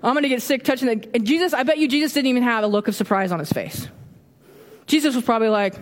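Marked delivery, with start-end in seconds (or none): 0.0-1.1 hammed-up bystander recoiling; mock shocked whoa. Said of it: "be like".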